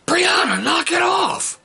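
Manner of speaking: high, loud parental shout; Brianna, knock it off, shouted high; yelling at kid. Retold or imitated. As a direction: yell it across the house to stop her. Yelling at daughter.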